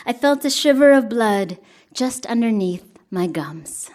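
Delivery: measured, even poetry reading voice; poem reading. Acted. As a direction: read each line like a poem to an audience. Reads her poem aloud.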